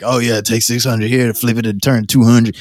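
lightly voiced street hustler pitch; a hint of a smooth-talking hustler; downtown hustler voice. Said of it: "Why did you sound like that just now?".

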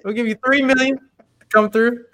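high, slow mock offer voice; drawn-out teasing offer; mock stingy boss. Imitating Jordan contract offer.

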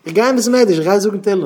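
acted desperate outpouring; worked-up pleading. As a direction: plead it loudly at a high pitch. Acted anguished search for help.

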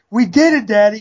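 put-on high, squealed cheer of a happy child; imitating a squealing girl. Piper cheering her dad after the kill, high squeal. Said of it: "She is squealing".

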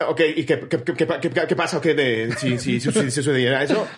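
halting, repeated false starts, mock worried; imitating a rattled patient; nervous stammering. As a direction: stumble over the question, stuck on each word. Retelling nervous reaction to diagnosis.

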